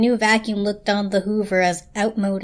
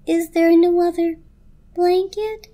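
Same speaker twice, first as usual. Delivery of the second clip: much higher, rising plea; desperate blanket; 9 semitones higher, 4 dB louder, slower than usual. A narrator's reading. The blanket begging for another blanket, high and desperate. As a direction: ask with dread.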